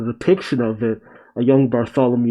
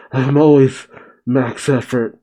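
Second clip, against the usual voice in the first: lightly acted puffing between words; mock out of breath, huffing before you speak; wheezing and panting. Luffy answers Zoro after running around, mock panting. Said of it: "Luffy's wheezing and panting".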